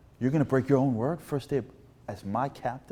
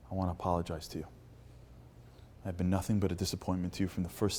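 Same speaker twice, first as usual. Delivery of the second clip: understated, ashamed confession; subdued apology; 2 semitones lower, 5 dB quieter than usual. Retold or imitated. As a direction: confess softly to a coach you let down. Ashamed player apologizes, tears on cheeks.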